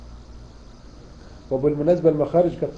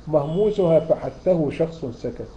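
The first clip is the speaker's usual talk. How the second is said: slow mnemonic recital; slower than usual. Shown as a demonstration. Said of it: "reciting the mnemonic".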